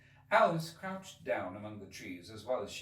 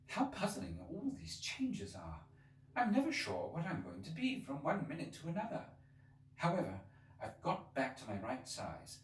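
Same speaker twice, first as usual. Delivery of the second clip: Alice to herself; 6 semitones higher than usual. Acted. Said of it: "began talking to herself".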